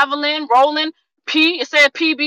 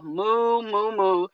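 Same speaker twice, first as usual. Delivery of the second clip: mock cow moo; 2 semitones lower, 7 dB quieter, much slower than usual. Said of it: "most people feel like cattle".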